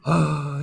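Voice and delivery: mock-sorrowful sighed oh; desperate sigh. Shown as a demonstration. Co-host shows how they sighed, mock sorrow. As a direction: sigh it out in exaggerated despair. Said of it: "sighed out of, like, absolute desperate, like, sorrow".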